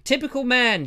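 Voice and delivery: high, loud imitated scolding; mock exasperation. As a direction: throw it up high like a fed-up friend. Imitating friend's exasperated repeat.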